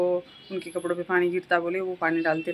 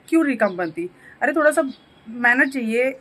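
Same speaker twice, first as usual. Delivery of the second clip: exasperated outburst; 3 semitones higher, 4 dB louder than usual. Real, not acted. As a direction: throw up your hands at her. Scolding outburst about manners. (झुंझलाकर ज़ोर से डाँटना)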